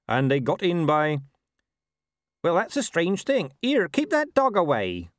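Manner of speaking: high-pitched farmer, getting agitated. Acted. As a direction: protest as a put-out farmer.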